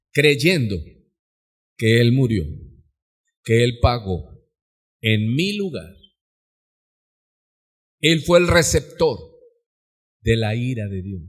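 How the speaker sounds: low-pitched, weighty phrases with long pauses; grave, measured pulpit delivery; solemn preaching. Real, not acted. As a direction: let each phrase land gravely before the next.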